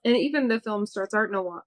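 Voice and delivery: slipping into an East Coast accent on noir. Real, not acted. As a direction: let the O's and R's of noir close up, East Coast style. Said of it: "that was my East Coast accent".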